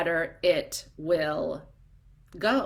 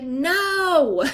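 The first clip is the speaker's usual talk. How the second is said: higher, loud corrective no; sharp no; 9 semitones higher, 6 dB louder than usual. Retold or imitated. Coach rejecting a timid introduction, loudly. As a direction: cut her off firmly. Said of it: "And she's like".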